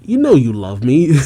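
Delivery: playfully indignant, rising at the end; lightly acted pushy demand; mock angry insistence. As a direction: insist with put-on annoyance. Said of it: "Jinny angrily says".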